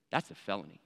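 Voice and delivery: low, hushed pronouncement; imitated cop, soft and deadly serious; grave officer. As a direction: drop the voice and deliver it ominously.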